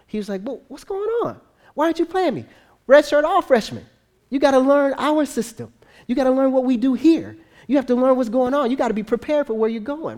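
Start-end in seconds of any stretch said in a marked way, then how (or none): 0.4-2.5 high-pitched, aggrieved complaint; whiny mock protest, very high; imitated grumbling. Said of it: "Zach starts to grumble". 2.9-10.2 raised, insistent coach voice; higher-pitched lecturing, lightly acted; imitated coach. Coach lecturing the complaining player.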